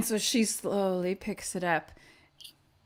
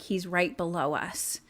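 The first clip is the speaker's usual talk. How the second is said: softer urgent whisper-like; hushed warning; 3 semitones lower, 6 dB quieter than usual. Acted. Characters in the kitchen warn each other, hushed. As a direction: tell them quietly. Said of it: "being like".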